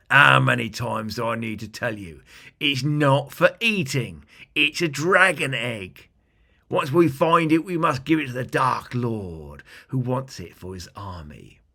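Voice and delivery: a goblin boss losing patience; big goblin. Acted. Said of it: "the big goblin answered back".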